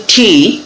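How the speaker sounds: "ঠি" with a strong breathy th burst; aspirated t. Shown as a demonstration. Teacher shows the aspirated English t sound. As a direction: puff of air on the t. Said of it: "মানে এটা হচ্ছে ঠ".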